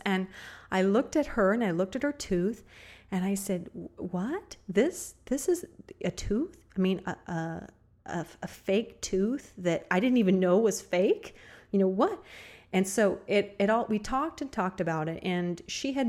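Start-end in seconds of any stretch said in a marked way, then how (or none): 4.0-12.2 amazed disbelief. Retold or imitated. Shown a fake tooth.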